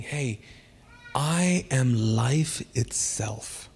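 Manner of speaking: calm him down like a gentle father; gentle voice of God. Acted. Preacher voices God reassuring the believer, softly and slowly. God speaks tenderly in sermon.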